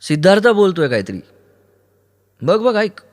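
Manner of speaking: high-pitched urgent call to listen; urgent urging. Acted. Aruni urges Kaumudi to listen to Siddharth, urgently. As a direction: urge her, pitched high.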